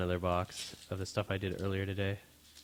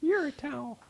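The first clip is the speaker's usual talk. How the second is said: stoner; 4 dB louder than usual. Pretend. South Park Towelie joke.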